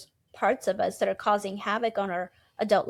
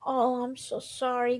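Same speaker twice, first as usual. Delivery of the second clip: sympathetic comfort. Retold or imitated. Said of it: "Then you say".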